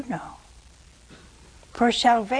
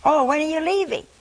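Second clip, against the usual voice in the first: chirpy dodge; 6 semitones higher, 5 dB louder, faster than usual. Acted. Friend changes the subject again.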